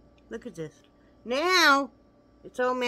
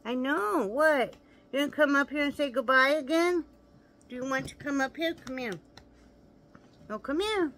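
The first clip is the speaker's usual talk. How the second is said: high, louder coaxing call to the dog; pet talk; 8 semitones higher, 4 dB louder than usual. Real, not acted. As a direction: coax the dog to come up. Calling the dog over.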